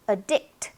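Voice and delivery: "addict" as uh-DICT; weak first syllable. Shown as a demonstration. Teacher shows the weak vowel, "addict" stressed on DICT. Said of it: "요렇게 약하게 발음이 됩니다".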